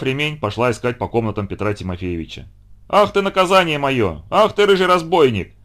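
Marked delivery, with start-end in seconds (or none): 2.9-5.5 raised scolding cry from another room; бабушка кричит. Acted. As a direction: scold the cat, calling out loudly. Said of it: "кричала где-то в комнатах бабушка". (бабушка кричит на кота из комнат)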